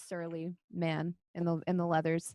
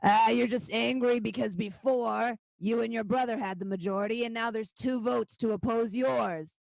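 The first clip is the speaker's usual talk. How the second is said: goblin butting in, pitched up; goblin piping up; 4 semitones higher, 4 dB louder than usual. Acted. Goblin taunting a rival councillor, piping up. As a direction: heckle as a needling goblin. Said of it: "the goblin pipe up again".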